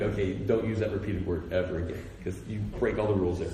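very low, soft monotone; imitated dry critique. Fellow preachers critiquing the sermon on Tuesday, dry and low. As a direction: deliver the rule in a low, level undertone.

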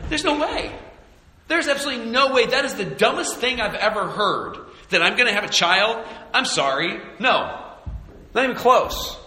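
Sarah scoffing at having a child in old age, mocking and high; scoffing disbelief. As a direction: scoff like the idea is absurd, laughing it off. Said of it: "be like".

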